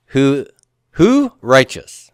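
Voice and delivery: a slow, broken who righteous; mock caveman grammar. Shown as a demonstration. Teacher joking to class: mock caveman question. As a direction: play it as caveman talk. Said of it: "Me, Tarzan".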